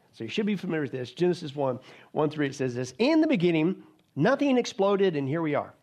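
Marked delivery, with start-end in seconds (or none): 3.0-5.7 a touch louder, sarcastic take on the creation story; mocking evolution's version. Preacher mocks evolution's creation story with louder sarcasm. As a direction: sneer it as the other side's account. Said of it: "That's what evolution says".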